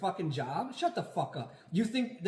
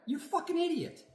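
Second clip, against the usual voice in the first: contemptuous jab; 13 semitones higher than usual. Real, not acted. Ranting at opponents.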